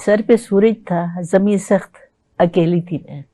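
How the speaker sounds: slow, measured ghazal recital; ghazal recitation. Acted. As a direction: recite it like at a mushaira.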